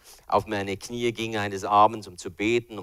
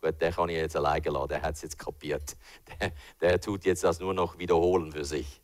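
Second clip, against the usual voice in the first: low, quieter satisfied devil; a pleased tempter chuckling to himself; smug devil; 6 semitones lower, 3 dB quieter than usual. Retold or imitated. Devil deciding he can leave the believer alone, smug and low. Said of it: "Dann kann der Teufel sagen".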